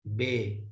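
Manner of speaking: बे with a long e; the faulty e-sound of बे; wrong vowel. Shown as a demonstration. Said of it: "बे के साथ लगी है बड़ी ए".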